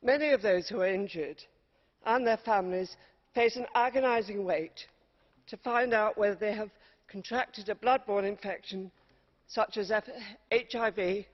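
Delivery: winded from climbing stairs; breathless after running upstairs; out of breath. Real, not acted. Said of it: "I'm, uh, out of breath running up those stairs".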